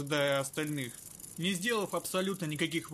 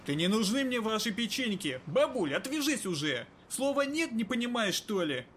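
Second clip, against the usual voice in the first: angry; 5 semitones higher than usual. Acted. Kirai snaps at granny.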